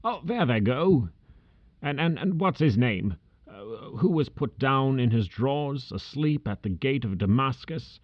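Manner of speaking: put-on high, strained old man near tears and laughter; overjoyed memories, half sobbing; between laughing and crying. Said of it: "a most extraordinary voice between laughing and crying".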